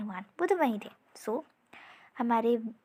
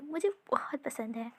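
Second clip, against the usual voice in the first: whispered, almost to himself; a hushed, fond confession; soft whisper; 6 dB quieter than usual. Acted. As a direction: breathe it out like a secret. Dreamy confession about his love.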